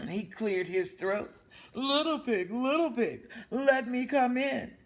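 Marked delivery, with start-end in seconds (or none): 1.7-4.8 laughing wolf. Acted.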